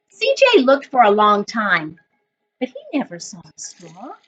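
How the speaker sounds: put-on reading a picture book aloud to children; story narration. A narrator's reading. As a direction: tell it gently, like story time for the class. Teacher reads picture book aloud.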